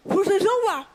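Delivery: loud, high furious mother; angry order. Retold or imitated. Mother repeats order, louder.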